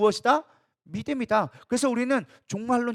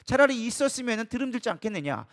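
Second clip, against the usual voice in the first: imitated complaint. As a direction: act out the people blaming Moses. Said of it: "원망하고 불평하게 되어지는 거예요". (원망하며 따지는 백성 흉내)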